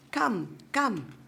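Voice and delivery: whispered beckoning. A narrator's reading. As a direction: coax her in under the breath. Old woman coaxing the girl.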